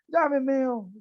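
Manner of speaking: high, loud shout at full lungs; shouting in church. Acted. The sister shouts at Urdemales in church, full-lunged shout. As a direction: yell it across the church. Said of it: "y grita".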